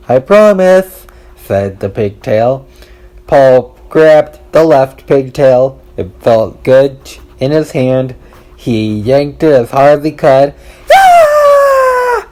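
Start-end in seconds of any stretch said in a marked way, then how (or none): 0.1-1.0 pigtail voice. A narrator's reading. Talking pigtail voiced by narrator. 10.9-12.3 piercing high scream, much higher and louder; girl's scream. A narrator's reading. Leslie screaming when her pigtail is yanked, sudden high scream. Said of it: "screamed Leslie".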